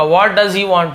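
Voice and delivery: "what does he want" said slowly, each word apart; slow, careful teacher demo; slow correct model. Shown as a demonstration. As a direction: model the right form slowly. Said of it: "होगा".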